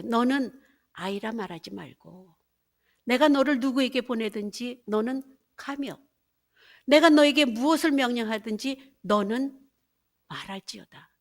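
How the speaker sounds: loud, ringing scripture reading; declaiming Bible verses from the pulpit; preaching scripture. Acted. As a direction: proclaim God's word to the congregation. Quoting God's command.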